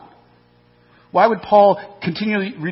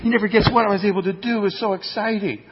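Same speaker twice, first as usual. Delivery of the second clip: excited telling; 4 semitones higher than usual. Retold or imitated. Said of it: "You'd be like".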